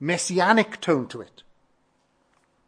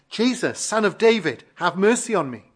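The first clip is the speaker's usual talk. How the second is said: blind beggar's plea, raised pitch in a preacher's reading; crying out; 4 semitones higher, 4 dB louder than usual. Retold or imitated. Blind beggar calls to passing Jesus for mercy, crying out. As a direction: mildly imitate a beggar calling for mercy. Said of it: "and he cried out".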